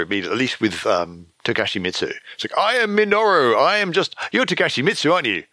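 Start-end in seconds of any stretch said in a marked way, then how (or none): 2.6-5.4 much higher, hammed-up indignant voice; mock-squeaky protest from the disguised hero; mocking character voice. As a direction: play the affronted disguised hero.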